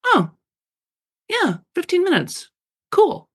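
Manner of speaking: high, bright little discovery; light up at the idea; delighted realizing oh. Retold or imitated. Reader discovering the fifteen minute idea, high and delighted. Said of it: "make that sound".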